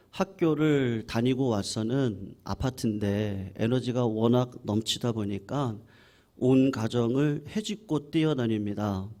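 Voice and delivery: usual speaking voice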